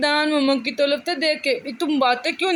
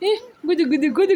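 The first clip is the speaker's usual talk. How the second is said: playful tickle talk; 5 semitones higher, faster than usual. Acted.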